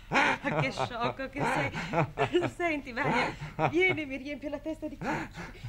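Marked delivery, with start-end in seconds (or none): 0.1-2.5 slow, laughing rebuke; affectionate teasing laugh; fond laughing scold. Acted. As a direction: chide him fondly.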